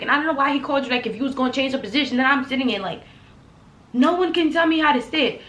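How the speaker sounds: fast, rising angry rant; retold heated rant. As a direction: let it build to no one can tell me. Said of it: "Now I'm at a ten".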